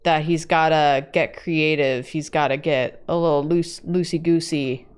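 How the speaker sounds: New York tough-guy accent. Shown as a demonstration. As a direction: talk like a New Yorker. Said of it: "That's my New York accent".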